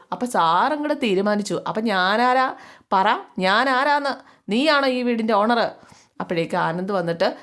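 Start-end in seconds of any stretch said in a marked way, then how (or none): 0.1-5.6 slow, rising, furious demand; slow sarcastic rage; father angrily asking who owns the house; angry scolding. Acted. Angry patriarch confronting son.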